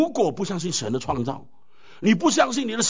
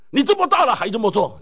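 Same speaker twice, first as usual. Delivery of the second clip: mock scolding parent; 3 semitones higher, 5 dB louder than usual. Parent scolding child quoted.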